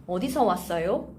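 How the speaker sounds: "어디서 왔어요?" run together quickly; natural fast phrase. Shown as a demonstration. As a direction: say "어디서 왔어요?" at fluent conversational speed. Teacher models phrase slowly, then fluently.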